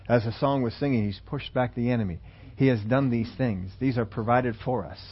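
building sermon voice, earnest and emphatic; preaching. Acted. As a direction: press the point home from the pulpit. Preacher drives home the message.

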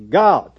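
"God" stretched loud into two syllables; "God" punched high and split in two. Acted. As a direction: draw out "God" like an excited preacher. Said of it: "is a two-syllable word".

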